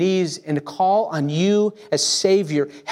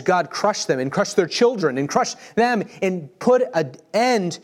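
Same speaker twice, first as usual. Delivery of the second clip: fervent imprecation; 3 semitones higher than usual. Acted. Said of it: "David says".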